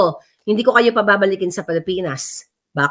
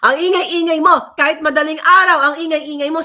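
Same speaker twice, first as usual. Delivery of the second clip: higher, a hint of a scolding kid; child's complaint; 6 semitones higher than usual. Her child complaining she's noisy, lightly voiced child. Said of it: "Sabi ganun sa akin".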